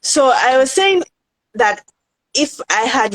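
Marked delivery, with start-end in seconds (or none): 0.0-1.8 tearful restart after crying; picking up again through tears. Real, not acted. Recovering after crying while recounting.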